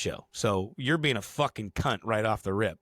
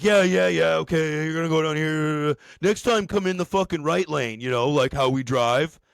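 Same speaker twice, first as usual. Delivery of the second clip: loud, high-pitched scolding; mock angry guard; 5 semitones higher, 6 dB louder than usual. Gate guy telling off the driver, mock loud scolding. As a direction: imitate an irate gatekeeper, higher and louder.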